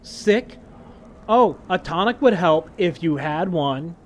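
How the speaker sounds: sweetly passive aggressive, lightly voiced; mock-sweet mom, mild. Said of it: "reread it in passive-aggressive mom voice".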